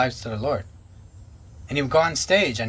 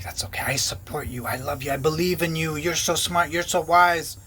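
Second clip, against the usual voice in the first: imitating soothing flattery. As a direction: coo it back like a manipulative pastor. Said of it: "he'd love bomb me".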